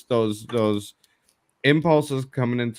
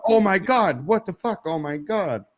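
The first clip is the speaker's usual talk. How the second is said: high-pitched imitated freak-out; mock panic; 7 semitones higher than usual. Kid copies parent's reaction, hammed-up panic. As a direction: act out a kid catching the alarm.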